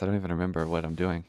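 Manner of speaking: out of breath. Real, not acted. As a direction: still panting, breathless. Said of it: "I'm so fucking out of breath".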